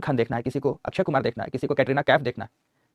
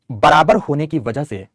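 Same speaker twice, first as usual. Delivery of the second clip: slow dictation; 4 dB louder, slower than usual. Shown as a demonstration. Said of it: "dictation repeated".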